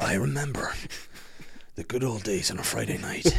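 full Irish storyteller, wistful; Liam Neeson. Real, not acted. Recalling Friday nights at the video shop, full Irish accent. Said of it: "why I'm going full Irish now".

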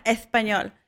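mock Castilian Spanish accent; imitated Spain accent. Imitating cousin who pretended to be Spanish, Castilian accent. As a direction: put on a lisping Spain accent. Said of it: "he came up with this accent".

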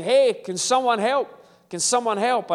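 man in a hole calls up to passers-by for help; calling for help. Acted. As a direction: call out from the bottom of a hole.

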